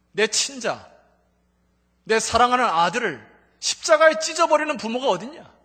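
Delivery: voice of God. Retold or imitated. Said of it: "세미한 음성으로".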